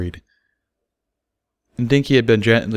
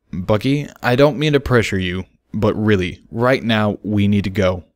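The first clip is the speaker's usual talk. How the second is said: low, soothing plea. Acted. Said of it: "still speaking in a low, soothing voice".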